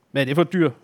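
mildly suspicious question. Acted. Farmer questions herr Holm about the animal, suspicious. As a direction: ask with a touch of distrust. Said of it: "spurgte gårdmanden mistroisk".

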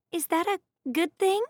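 put-on careful hesitant servant girl; cautious. A narrator's reading. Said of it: "Annabeth asked cautiously".

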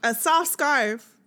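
mock-outraged slow echo; incredulous. Real, not acted. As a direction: drag it out in disbelief. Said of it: "The fuck?".

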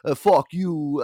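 loud, drawn-out heckling in a put-on voice; brutal rival fans. Yankees fans abusing a visiting Orioles fan, mock angry yelling. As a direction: imitate a hostile crowd yelling abuse. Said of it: "they're so brutal to me".

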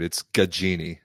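Gaggini said properly, matter-of-fact; corrected pronunciation. Shown as a demonstration. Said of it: "I need you to fix that".

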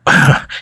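short high chuckle; little put-on chuckle; acted chuckle. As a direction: give a brief in-character chuckle. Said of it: "he kinda chuckles".

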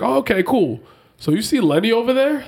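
high, upbeat coach voice; breezy and high-pitched, like a casual coach. Retold or imitated. Retelling what the coach said.

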